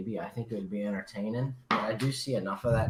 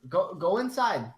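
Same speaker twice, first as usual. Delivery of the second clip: high, slow put-on Asian accent; mock Asian accent; 7 semitones higher, 4 dB louder, slower than usual. Firefighter sending the Asian lady inside, mock accent. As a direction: order it slowly in an imitated Asian accent. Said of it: "You gotta say it in the accent".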